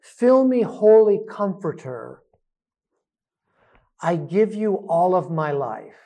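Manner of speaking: spoken breath prayer at normal pace; prayerful. Shown as a demonstration. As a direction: say the prayer aloud, steady. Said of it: "use your own language".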